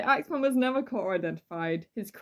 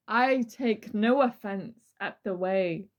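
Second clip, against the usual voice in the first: dramatic reading. Acted. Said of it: "This is a dramatic reading".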